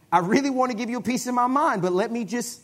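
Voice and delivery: hammed-up angry restraint. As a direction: act like you're about to snap. Acted inner voice, heated.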